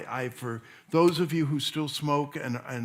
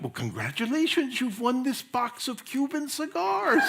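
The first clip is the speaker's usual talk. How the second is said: put-on higher, excited Cuban accent; pitched-up Cuban-accented announcer; 9 semitones higher than usual. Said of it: "a man with a Cuban accent comes over".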